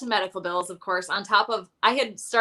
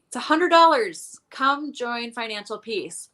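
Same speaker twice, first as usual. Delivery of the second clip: mock sales pitch; 3 semitones higher than usual. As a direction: lightly imitate someone announcing the price. Quoting the church's sales pitch.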